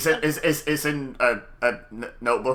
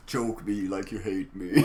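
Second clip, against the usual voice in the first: laughing; 4 semitones lower, 4 dB quieter, slower than usual. Retold or imitated. Repeating funny line laughing.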